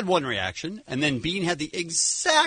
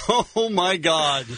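snorting laughs; 2 semitones higher, much slower than usual. Real, not acted. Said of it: "did you just snort?".

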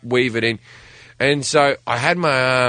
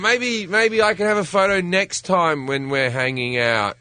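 higher, mock-breezy cover-up; hiding upset; 5 semitones higher, slower than usual. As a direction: put on breezy disappointment for a hero. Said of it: "didn't want a singer to know I was upset".

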